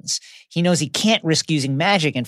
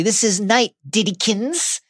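taunting; 5 semitones higher, 3 dB louder than usual. Retold or imitated. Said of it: "taunts him".

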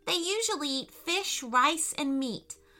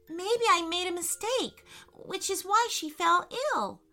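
put-on high, upset little girl; mock-tearful girl's voice; acted sobbing; 7 semitones higher than usual. A narrator's reading. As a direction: plead as a worried child, pitched high.

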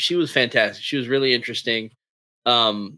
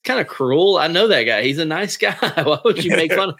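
mock offended; 6 semitones higher, 5 dB louder than usual. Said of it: "I was like".

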